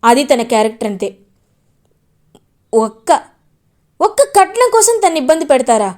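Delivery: angry scolding. Acted. Gagan scolds in-laws.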